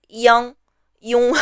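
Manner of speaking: nasal Chinese "yang, yung"; "yang" and "yung" as separate nasal example syllables; nasal vowels. Shown as a demonstration. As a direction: say "yang, yung" with the vowel resonating through the nose. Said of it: "Some of them are very nasal".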